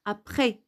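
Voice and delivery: Après said 'aprè', no s at the end; silent final S. Shown as a demonstration. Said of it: "vous n'avez pas écouté S".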